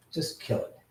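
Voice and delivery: urgent whispered instruction aside; whispered order. Real, not acted. Streamer quietly tells the helper to kill the app, whispered.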